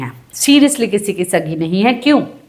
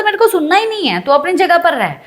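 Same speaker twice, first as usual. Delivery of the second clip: higher, imitating an irritated refusal; a touch of retold anger, pitched up; mock irritated retort; 6 semitones higher than usual. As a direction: toss it off like a man who won't listen. Rajat refusing angrily, retold.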